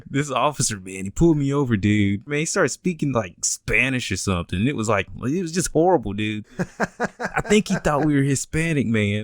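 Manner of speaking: lightly voiced California surfer dude; a hint of California skater bro; California surfer accent. Skateboarder telling his homies about the officer's bad Spanish, California surfer accent. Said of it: "just the California surfer accent these guys had".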